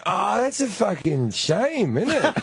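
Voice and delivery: slow, drawn-out sarcasm; sarcastic. Retold or imitated. To girlfriend with no batteries, slow sarcastic reply. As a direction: let the sarcasm drip. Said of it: "I went".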